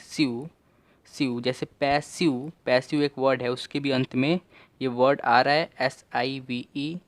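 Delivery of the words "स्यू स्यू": "स्यू" said on its own and repeated; "स्यू" drilled. Shown as a demonstration. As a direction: say "स्यू" clearly, twice. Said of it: "इसे स्यू पढ़ते हैं".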